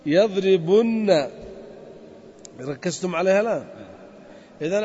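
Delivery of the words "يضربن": يضربن said very slowly and louder, nun held; stressed doubled nun. Shown as a demonstration. Teacher stressing the final form for the class. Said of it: "الالتقاء الساكن".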